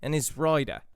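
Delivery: Australian accent on "dino and his rider"; Australian drill phrase; Australian accent practice. Shown as a demonstration. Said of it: "sentences that you're practicing with".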